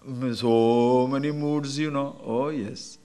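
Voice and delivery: slow, soft, drawn-out musing; mock blissful agreement. Teacher mocks seeker who can't see truth, dreamy agreement. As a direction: savour it dreamily, in mockery. Mimics self-deluded seeker savouring moods.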